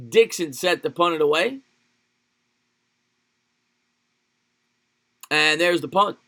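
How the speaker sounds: streamer calling his game like a TV broadcaster, excited play-by-play; live play-by-play. Acted. Play-by-play call.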